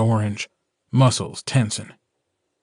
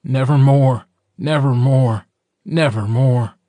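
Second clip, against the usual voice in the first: restrained, insistent raven cry; screaming raven; 4 dB louder than usual. A narrator's reading. Raven cries over the bite, restrained scream. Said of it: "the raven opening its beak and screaming".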